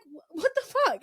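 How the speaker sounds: amused incredulous blurt; laughing what the fuck. Retold or imitated. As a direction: laugh it out, stunned. Retold shock, laughing.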